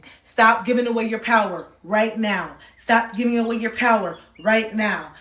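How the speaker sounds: forceful repetition to the viewer; insistent repeated command. Acted. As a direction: keep repeating it like a firm mantra. Repeating the card's message.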